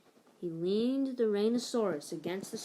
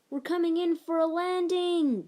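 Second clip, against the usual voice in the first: higher, louder pilot calling out; 9 semitones higher, 6 dB louder than usual. Acted. Captain calling to his crew, loud pretend call. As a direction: announce the landing like a captain. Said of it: "called Captain Little Bill".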